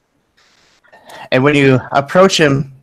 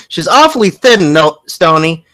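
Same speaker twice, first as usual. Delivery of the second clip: lightly voiced mother, pitched up; fussing mother; 3 semitones higher, 3 dB louder than usual. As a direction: raise it a little for a fretting mom. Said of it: "She says".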